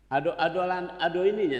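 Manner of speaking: a loud outcry of surprise; dismayed exclamation. Real, not acted. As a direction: exclaim in alarm.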